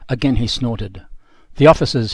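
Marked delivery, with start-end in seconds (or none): 1.6-2.1 reluctant. Retold or imitated. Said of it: "he said, reluctantly".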